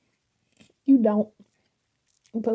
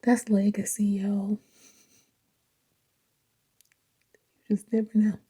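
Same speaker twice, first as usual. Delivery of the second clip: awed whisper; 6 dB quieter than usual. Real, not acted.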